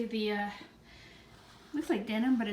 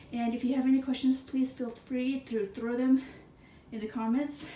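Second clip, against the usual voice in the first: breathless and winded; out of breath. Real, not acted. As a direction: talk while still out of breath. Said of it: "I'm so out of breath".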